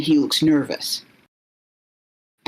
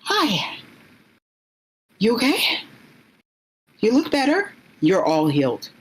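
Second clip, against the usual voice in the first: much higher, light concerned voice; bright caring greeting; 8 semitones higher than usual. Acted. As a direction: check on a friend gently, pitched up. Character greets the healed player.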